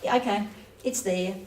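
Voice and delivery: a high, drawn-out "Nyeh" of indifference; unimpressed shrug. Pretend. The detached sage shrugging at pleasure, high and slow. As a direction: shrug it off slowly. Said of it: "material happiness is just like".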